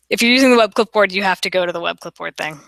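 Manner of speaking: talking while chewing gum. Real, not acted. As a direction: say it around a wad of gum. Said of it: "I can't talk and chew gum".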